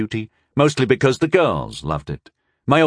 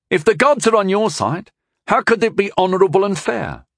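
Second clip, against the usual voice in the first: snickering; 10 semitones higher, 3 dB louder than usual. Acted. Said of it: "with a snicker".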